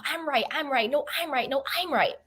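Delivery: mildly acted back-and-forth squabble; mock arguing. Lion and donkey going back and forth, mock arguing. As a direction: bicker lightly, each claim lifted then falling. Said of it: "they start arguing".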